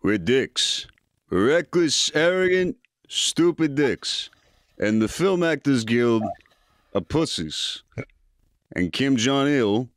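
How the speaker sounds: lightly mumbled boxer voice; a hint of a Philly tough guy, slow; Rocky Balboa. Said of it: "Rocky Balboa, go".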